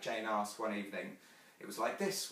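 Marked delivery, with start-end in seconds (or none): 1.6-2.3 understated grown-up mother's voice; Wendy. Acted. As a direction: say it lightly, as a mother demonstrating. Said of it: "Wendy said".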